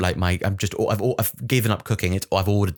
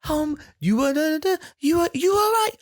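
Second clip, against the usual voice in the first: put-on very high cooing baby talk; squeaky high voice for a baby. Shown as a demonstration. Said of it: "If it was a baby, it's go".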